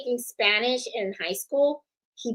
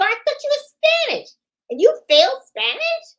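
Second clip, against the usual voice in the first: high, loud incredulous question; mock disbelief; 5 dB louder than usual. People asking in disbelief.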